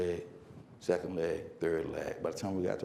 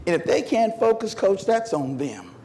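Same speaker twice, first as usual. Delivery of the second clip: lightly voiced defiant teenager; teenage back-talk; 4 semitones higher than usual. Runner defending herself to coach, mock teenage back-talk. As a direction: answer back like a teenager quoting the rules. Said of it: "I got that teenage answer".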